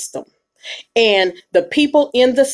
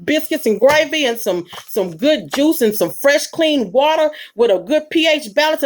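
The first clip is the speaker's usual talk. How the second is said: generous offer; 4 semitones higher than usual. Retold or imitated. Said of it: "You be like".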